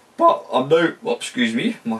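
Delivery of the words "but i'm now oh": voice jumping up in pitch, higher and louder. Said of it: "my voice went up a few oc-".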